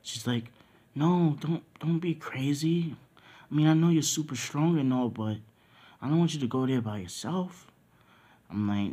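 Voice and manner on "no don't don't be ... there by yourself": higher-pitched worried woman's voice; pleading Nami. Acted. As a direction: plead with him in a raised pitch. Nami pleads with him not to go.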